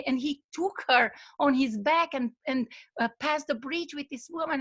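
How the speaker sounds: seethe inwardly at the master's broken rule; frustrated inner rant. Retold or imitated. Young monk fuming to himself over his master. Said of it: "the young monk is so frustrated".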